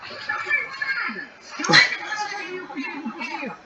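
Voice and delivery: put-on high, playful singsong to a toddler; playful baby talk. Mother teasing her little son Bernardo, high playful singsong.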